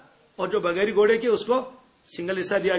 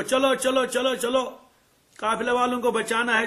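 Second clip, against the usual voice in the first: higher, urgent rallying of a crowd; rallying call; 3 semitones higher than usual. Retold or imitated. Abu Jahl gathering men for the caravan, rallying call. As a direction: imitate someone hustling people along.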